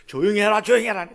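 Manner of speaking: loud mock scolding; acted stern order for silence; crowd's rebuke. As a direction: hush him sharply and loudly. Crowd hushing the shouting blind man.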